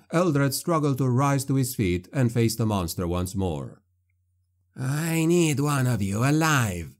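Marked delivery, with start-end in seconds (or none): 4.7-6.9 slow sneering villain voice; sneering hiss. A narrator's reading. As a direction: hiss it with cold contempt. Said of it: "a sneering voice hissed from the doorway".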